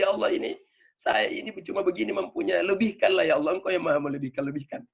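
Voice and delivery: imploring, as in a personal prayer; pleading prayer. Acted. Acting out a humble plea to God.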